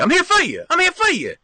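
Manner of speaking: high, light falsetto I'm here for you; mock sweet high reassurance; sing-song falsetto. Shown as a demonstration. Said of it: "That's what I always tell people".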